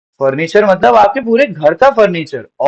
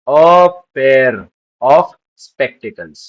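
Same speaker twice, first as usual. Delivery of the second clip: slow model phrase; 4 semitones lower, much slower than usual. Shown as a demonstration. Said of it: "तो उसको आप बोलेंगे".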